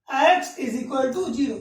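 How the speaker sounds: each word spaced out slowly; slow dictation. Shown as a demonstration. Teacher dictating the condition slowly to students. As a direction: read the condition out slowly for the class to copy.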